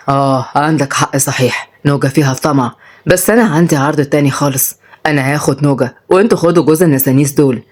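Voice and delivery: low-voiced old bargainer; crafty grandfather. (جدّ مكّار)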